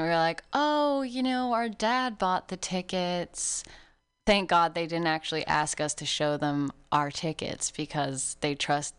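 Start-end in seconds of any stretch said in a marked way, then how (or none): 0.5-3.6 high, drawn-out innocent act; playing innocent. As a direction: play the wide-eyed innocent, pitched up. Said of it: "we played innocent".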